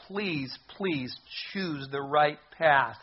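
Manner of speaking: slow, drawn-out imploring; earnest, unhurried plea; pleading. Retold or imitated. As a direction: gently beg them, stretching each "please". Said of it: "he would be pleading with anyone".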